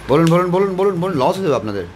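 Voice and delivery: egging the crowd on to speak up; urging. Real, not acted. Urging shy audience to ask. (উঁচু গলায় তাগাদা)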